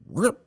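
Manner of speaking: high, sudden ripping sound effect; mimicked whoosh into a loop; imitated yank. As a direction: zip it out high, like yanking the controls. Imitates pilot yanking into a loop.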